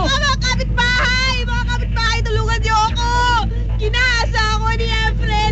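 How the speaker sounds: calling for help. Acted. Neknek calls the neighbours for help. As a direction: cry out to the neighbours.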